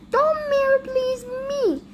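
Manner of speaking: high-pitched indignant mayor; irritated retort. Acted. Mayor cutting off the chief's plea, irritated. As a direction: cut off the pleading, high and cross. Mayor cuts off pleading officer.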